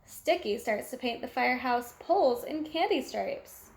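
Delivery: plain reading voice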